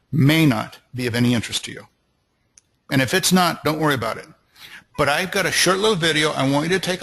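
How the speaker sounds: upbeat, believing sales voice; enthusiastic pitch. Shown as a demonstration. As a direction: sell it like you believe every word. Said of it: "just listen to the music in my voice".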